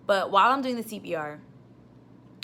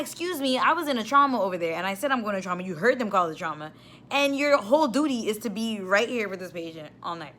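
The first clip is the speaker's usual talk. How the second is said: annoyed scolding; 2 semitones higher, 3 dB louder than usual. Retold or imitated. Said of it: "I was, like, highly annoyed".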